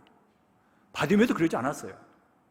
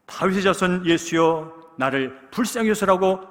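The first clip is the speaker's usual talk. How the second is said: preacher's cry out; 4 semitones higher, 6 dB louder than usual. Retold or imitated. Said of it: "소리를 지릅니다".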